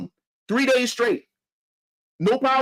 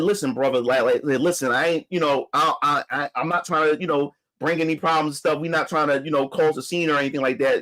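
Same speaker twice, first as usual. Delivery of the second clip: low calming owner voice; 8 semitones lower than usual. Retold or imitated. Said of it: "So he said".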